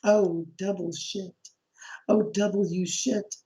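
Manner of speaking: retold dread, escalating in slow steps; mounting dismay. Neighbor realizing what the director wants, mounting dismay.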